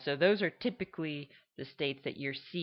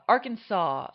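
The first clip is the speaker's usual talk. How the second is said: Arkansas accent; 5 semitones higher, 8 dB louder than usual. Shown as a demonstration. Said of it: "kind of an open mouth sound".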